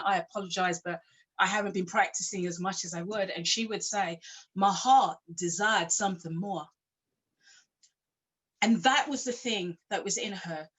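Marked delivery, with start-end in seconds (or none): 4.6-6.7 put-on light American accent. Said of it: "and I do it in American accent".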